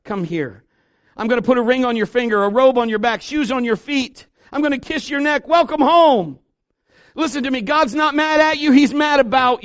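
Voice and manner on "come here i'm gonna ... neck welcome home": from a hushed invitation to a jubilant cry; God calling home. Acted. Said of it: "He's saying".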